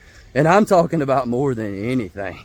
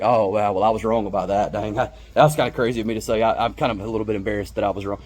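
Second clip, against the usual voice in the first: lower, meek admission of being wrong; pretend sheepish self; 6 semitones lower than usual. Imagining being corrected online, sheepish and lower. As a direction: play yourself humbly owning a mistake, voice dropped. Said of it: "I'd feel like".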